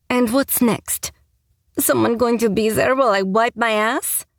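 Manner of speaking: shouting. A narrator's reading. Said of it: "I shouted".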